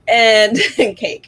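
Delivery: kind gentle laugh. Real, not acted. Laughing at chat about cake.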